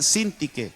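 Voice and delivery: "Sintique" stressed on the first syllable, SIN. Shown as a demonstration. Preacher helps listeners find the name, "Sintique" stressed on SIN. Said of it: "con acento en la I".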